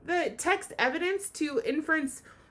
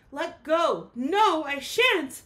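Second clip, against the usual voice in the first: slow, drawn-out no I shan't; stubborn refusal; 4 semitones higher, 6 dB louder, slower than usual. Acted. Kevin to the crowd, stubbornly refusing to let go. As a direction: dig in and refuse.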